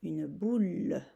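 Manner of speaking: une boule said slowly, ending with a falling tone; slow dictation repeat. Shown as a demonstration. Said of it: "Je t'aide un peu". (une boule lentement, répétée)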